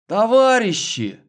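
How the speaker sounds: high desperate wail; wailing yell. A narrator's reading. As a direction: yell out in despair. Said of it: "вдруг заблажил задержанный".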